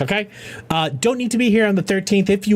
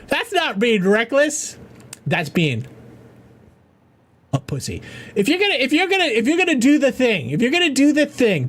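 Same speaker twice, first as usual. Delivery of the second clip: high, heated challenge; calling out a chatter; worked-up callout; 5 semitones higher than usual. Real, not acted. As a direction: rise up and call him out. Calling out a viewer.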